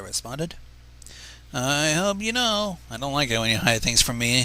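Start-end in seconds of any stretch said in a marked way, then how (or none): 1.5-4.4 a touch of stern mentor in a warning; lightly voiced princess scolding her student; sternly. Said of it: "Celestia replied sternly".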